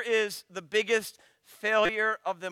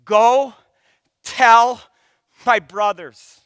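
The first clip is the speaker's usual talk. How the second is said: 1 loud quote; 2 semitones higher, 12 dB louder, slower than usual. Acted. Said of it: "It says".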